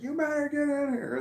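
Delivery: very high, sharper warning tone; stern warning. Retold or imitated. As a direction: threaten the dog half-jokingly. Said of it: "I was saying things like".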